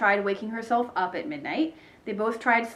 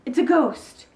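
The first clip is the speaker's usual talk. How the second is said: whisper shout; 5 semitones higher, 6 dB louder than usual. Acted. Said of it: "Ivy whisper shouted".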